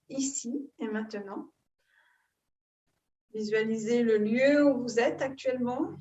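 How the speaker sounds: calm guided breathing, long pauses between phrases; soothing yoga-teacher guidance, phrase by phrase; guided meditation. Real, not acted. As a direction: lead them gently into breath awareness, unhurried.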